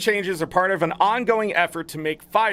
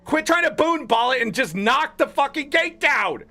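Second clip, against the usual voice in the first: worked-up rant; 7 semitones higher than usual. Real, not acted. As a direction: rant at them, fed up. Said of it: "I didn't mean to get that worked up".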